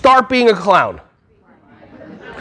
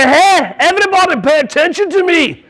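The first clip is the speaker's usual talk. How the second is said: higher-pitched mock-Scottish call for attention; Scottish accent; 5 semitones higher than usual. Shown as a demonstration. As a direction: put on a playful Scottish accent for the kids. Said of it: "Scottish accents".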